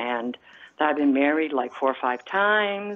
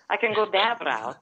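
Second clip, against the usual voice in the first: Croatian-Italian accent; mother's foreign accent; 3 semitones higher than usual. Shown as a demonstration. Showing the host her put-on voice, foreign accent. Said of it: "I do have a foreign accent".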